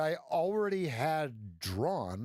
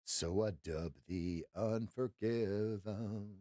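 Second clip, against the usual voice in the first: lower, softer, slow ceremonial voice; mock solemn dubbing; 7 semitones lower, 6 dB quieter, slower than usual. Naming the trade for viewers, solemn and low. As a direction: knight it like a ceremony.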